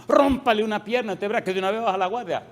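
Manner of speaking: hammed-up vengeful plea; mock angry demand. Preacher asks God to break leg. (petición vengativa en broma, más alta y fuerte)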